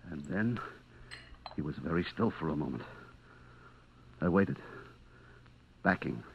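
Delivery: low, soft, held-breath narration; quiet and low, waiting in dread; hushed suspense. A narrator's reading. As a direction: drop to a near hush. Hushed suspense after fall.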